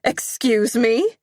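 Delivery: high, loud, slow disbelieving question; shocked mother squeaking; mother reeling in disbelief, high-pitched. Acted. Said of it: "in a high-pitched voice".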